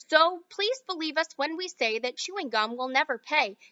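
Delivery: rhythmic verse reading; light sing-song verse; poem recital. Acted. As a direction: lilt the rhyme like a chant. Reads Oompa Loompa song verse.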